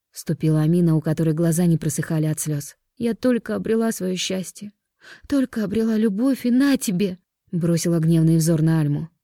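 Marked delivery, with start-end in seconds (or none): 3.0-7.2 rising higher, anguished bitter cry; weeping wife blaming her sister; tearful outburst. Acted. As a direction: build from grief to anger. Crying sister rages.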